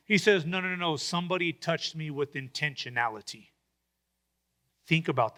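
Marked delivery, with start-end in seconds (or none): 0.5-3.5 softer, lower, deliberate insistence; gently insist, lowering the voice; a soft, firm correction to the disciples; quiet insistence. Retold or imitated.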